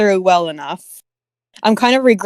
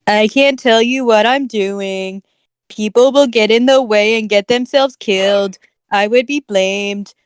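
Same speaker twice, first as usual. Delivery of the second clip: Chills. Acted. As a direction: drag the words out in a lightly put-on voice. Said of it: "you're doing a Chills voice".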